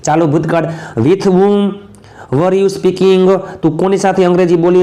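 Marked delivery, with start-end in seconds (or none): 1.0-3.4 slow dictation. Shown as a demonstration. Teacher models English sentence slowly.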